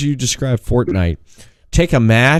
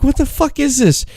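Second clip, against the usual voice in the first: much higher, baffled outburst; mock disbelief; 13 semitones higher than usual. Watching a friend die in the game, mock disbelief. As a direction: act out your own confusion. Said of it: "I'm like".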